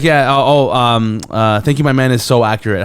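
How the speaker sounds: excited fan voice, loud; celebrity impression. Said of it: "he's like".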